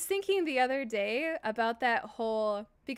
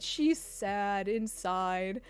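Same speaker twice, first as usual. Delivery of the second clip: slow, lower, lightly voiced creepy commenter; mock commenter voice; 3 semitones lower, much slower than usual. Streamer quotes a creepy commenter in a lightly mocking slow drawl. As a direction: drawl it like a sleazy stranger. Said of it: "he commented".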